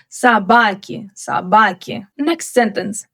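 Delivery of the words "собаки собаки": "Собаки" as sabaki, stressed on the second syllable; reduced O. Shown as a demonstration. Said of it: "here the stress falls on A".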